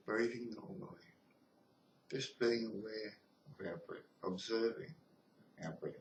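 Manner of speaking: calm, measured meditation guidance with long pauses; guided meditation. Real, not acted. Teacher leading listeners through breath and body scan, guided meditation. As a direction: talk them gently through each step, leaving space between phrases.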